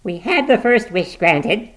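high, loud, drawn-out insistence; feverish. A narrator's reading. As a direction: argue feverishly for another wish. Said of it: "woman feverishly".

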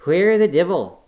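loud, high angry dialect cry; gruff outburst. A narrator's reading. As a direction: burst out at her. Joseph's outburst.

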